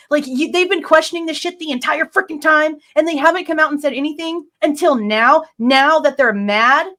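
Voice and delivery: real, rising anger; getting angry. Real, not acted. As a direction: vent the frustration, slowing down. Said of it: "this is why I'm getting angry".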